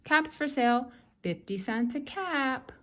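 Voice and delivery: mild peddler's sales cry; calling out wares. Acted. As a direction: call it out like a peddler. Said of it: "he walked back to town calling".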